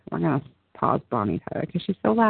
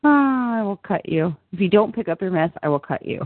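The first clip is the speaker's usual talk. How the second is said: Crazy Eyes threat. Acted. Fan voicing Crazy Eyes' famous threat, playful menace. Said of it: "That's my famous line".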